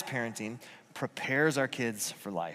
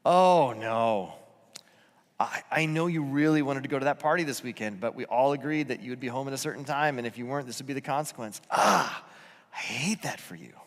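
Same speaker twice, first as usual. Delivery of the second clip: a touch of gentle commiseration; sorry, but holding the line kindly; sympathetic parent; 2 semitones lower than usual. Shown as a demonstration. Parent to the kid who missed curfew, gently sorry. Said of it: "Looks like this".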